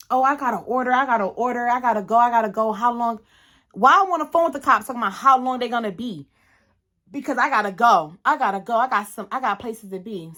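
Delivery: imitating someone restless, a touch rushed and repetitive; mock antsy. Retelling the driver pressing to leave the accident, mildly antsy. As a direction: lightly mimic an impatient, jittery driver. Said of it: "like, mad antsy and".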